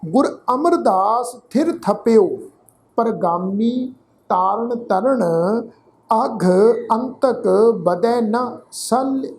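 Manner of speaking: measured Gurbani reading, phrase by phrase; deliberate teaching recitation of sacred verse; scripture recitation. Shown as a demonstration. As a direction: recite with drawn-out vowels and pauses between phrases. Repeats the final verse.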